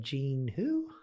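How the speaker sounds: mildly puzzled imitation of a clerk. Ticket clerk asks about an unknown name, puzzled. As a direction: question the unfamiliar name, lightly puzzled. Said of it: "she sounded puzzled".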